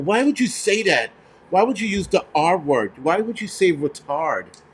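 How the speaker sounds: hint of a scandalized complainer, slowing on the last word; mock offended scolding. Critics scolding him for his language, mock offended.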